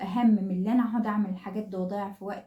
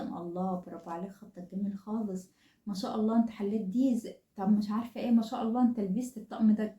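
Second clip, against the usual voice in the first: warm praise. Shown as a demonstration. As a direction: praise him tenderly, impressed. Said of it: "نحفزه دايمًا". (مدح حنون بصوت أهدى)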